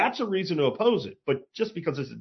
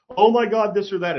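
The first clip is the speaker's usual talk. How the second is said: mocking whiner; 5 semitones higher, 4 dB louder than usual. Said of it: "all these crying people".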